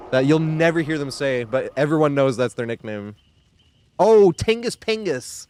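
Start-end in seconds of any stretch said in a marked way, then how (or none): 4.0-5.4 amused. Real, not acted. Recalling the funny nickname.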